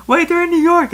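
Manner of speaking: high, loud sudden realization. Real, not acted. Reader realizing the setting, high surprised outburst. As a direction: it just clicked, blurt it out. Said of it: "It just clicked with me".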